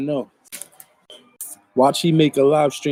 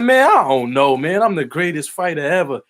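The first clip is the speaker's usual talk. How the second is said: mock outburst from a fighter; Mike Tyson. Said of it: "That's what Mike say".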